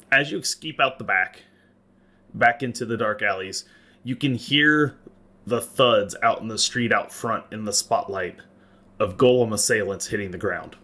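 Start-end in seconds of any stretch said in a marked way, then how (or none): none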